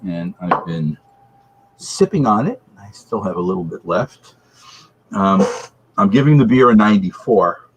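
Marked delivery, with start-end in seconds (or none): 0.1-2.9 slow, echoing like a hall; reverb echo. Real, not acted. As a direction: speak into a reverb-heavy room. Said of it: "sorry for the reverb".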